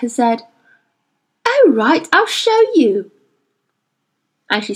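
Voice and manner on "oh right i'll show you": put-on higher, brisk girl; a girl snapping into action; Lyra, impatient. A narrator's reading. Girl giving in to the suspicious boy, impatient. Lyra's voice.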